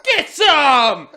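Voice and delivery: high, loud challenge; mock fight taunt; taunting yell. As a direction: goad the whole mosh pit. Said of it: "I'm like".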